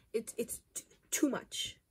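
breathless unvoiced whisper; whispered too much. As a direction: murmur it, overwhelmed. Overwhelmed by palette.

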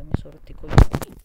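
loud fed-up swearing; fed-up outburst. Real, not acted. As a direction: spit out the annoyance. Fed up with connection.

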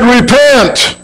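"Repent." rising high then falling hard; emphatic repent. Acted. Preacher quoting prophets calling the people, emphatic. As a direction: hit "Repent." like a prophet's command.

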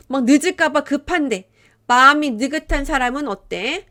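usual speaking voice

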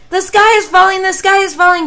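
very high, very loud panicky hen; shrieking alarmed chicken; clucking hen. Acted. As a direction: squawk it out frantically. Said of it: "clucked Chicken Licken".

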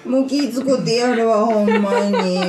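mock exasperation.

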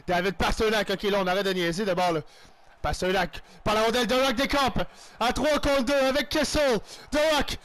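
lively sports-caster call of the action; commentating his own match as it unfolds; play-by-play commentary. Acted. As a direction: call the game like a TV announcer. Play-by-play of own hockey game.

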